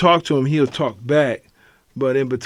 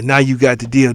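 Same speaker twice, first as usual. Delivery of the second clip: imitating the patient; 4 dB louder than usual. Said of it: "That was his shit".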